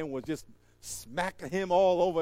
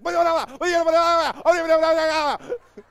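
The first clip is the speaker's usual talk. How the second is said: high frantic mock babbling yelp; 10 semitones higher, 11 dB louder than usual. Guy reacting to snake.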